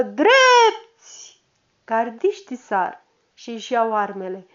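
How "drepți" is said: lătrat milităresc, mult mai sus și mai tare; comandă din toți plămânii, de bucurie; comandă strigată. Acted. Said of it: "strigă". (comandă strigată)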